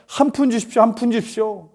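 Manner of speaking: high-pitched beggar's plea; imitated begging. Blind beggar asking people for a coin, imitated begging. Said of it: "구걸만 하던 이 맹인이".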